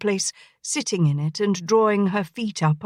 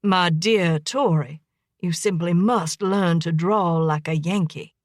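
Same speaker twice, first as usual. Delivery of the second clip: simpering tone. Acted. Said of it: "affected a simpering tone".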